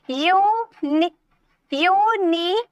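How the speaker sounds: यूनिवर्सिटी slowly, restarted, syllable by syllable; split into syllables. Shown as a demonstration. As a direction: stretch यू, नि, वर, सि, टी with pauses between. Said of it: "five syllable हो गए हैं". (यूनिवर्सिटी को धीरे, टुकड़ों में तोड़कर)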